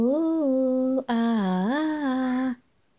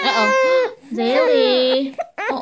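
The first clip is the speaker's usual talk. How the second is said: loud uh-oh; 12 semitones higher, 6 dB louder than usual. Real, not acted. Mother reacting loudly as the baby bursts into tears. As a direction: call out the uh-oh high and loud. Another child starts crying loudly.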